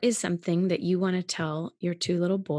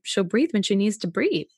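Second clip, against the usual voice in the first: calm mom; 4 dB louder than usual. Retold or imitated. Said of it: "my mom would just calmly say".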